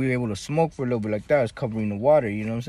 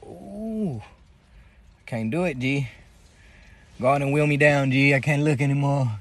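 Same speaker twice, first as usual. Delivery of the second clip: mock fear of heights. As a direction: beg to be wheeled down from the height. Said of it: "and I'd be like".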